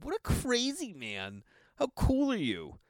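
high, slow, amazed; awed. Retold or imitated. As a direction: marvel at him, drawn out. Awed reaction to Lynch story.

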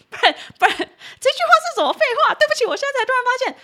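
high, loud laughing outburst. Real, not acted. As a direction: crack up at the silly sentence. Laughing at own silly sentence. (边笑边说，又高又响)

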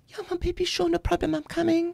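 put-on sugary mom rushing to rescue her child; doting mom. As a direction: coo it like an overeager mother.

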